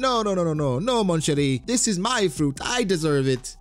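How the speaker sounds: high-pitched, hammed-up crewmate refusing; mock indignant refusal. Acted refusal by Thatch in quarrel.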